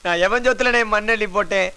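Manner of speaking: anguished, tearful lament; crying. Acted. Man tells his boss of the roadside killing, crying. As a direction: cry out the grievance to someone you trust. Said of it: "அழுகாதடா".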